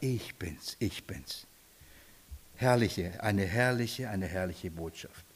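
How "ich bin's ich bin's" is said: much softer and lower, tender; gentle Jesus. Acted. Jesus speaks peace into the heart, soft and low. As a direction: murmur it to bring rest. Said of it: "Er sagt".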